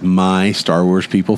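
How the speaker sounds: slow, with weight on "My"; pointed imitation. Exposing the co-host's subtle language trick, "My" stretched pointedly. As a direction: lean on "My" and draw the phrase out. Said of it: "Do you see how he says".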